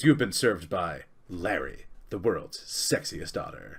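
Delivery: otter character voice, slow pace. Voicing an otter serving a drink: voicing the otter Larry. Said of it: "And he goes".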